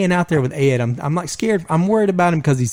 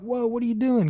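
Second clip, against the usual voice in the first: high, softer startled recoil; retold startled whoa; 9 semitones higher, 6 dB quieter than usual. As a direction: pull back from a hug, startled. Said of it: "I'm like".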